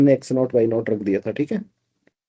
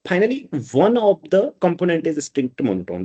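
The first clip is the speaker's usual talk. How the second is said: slow dictation; 3 semitones higher, much slower than usual. Shown as a demonstration. Dictating while writing on board.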